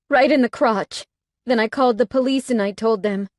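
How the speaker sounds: high, loud and urgent; agitated. A narrator's reading. Heroine telling the bikers her escape, agitated. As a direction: rush through the escape.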